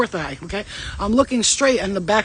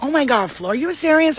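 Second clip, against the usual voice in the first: mock disbelief; 6 semitones higher than usual. Accused woman answering Flo, high mock disbelief. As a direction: pitch climbing into put-on incredulity.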